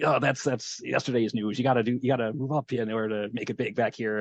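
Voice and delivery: put-on light Australian accent, quoting a cocky inmate. Bob brushing off the sim card scheme, Australian accent. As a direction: toss it off in a breezy Australian accent. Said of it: "I'm not doing the accent for effect".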